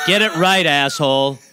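loud, crying-out mock fury; hammed-up angry yell; mock angry shout. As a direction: yell the correction in fake rage.

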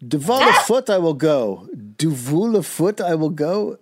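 hammed-up Irish brogue; a playful stage-Irish lilt; Irish accent. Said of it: "in his Irish accent".

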